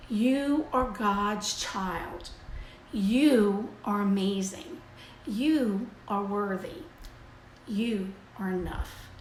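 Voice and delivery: slow, tender and sincere, each phrase given room; slow sincere affirmation. Acted. Reading her tip to viewers, slow and tender. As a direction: read it like a gentle blessing over the listener.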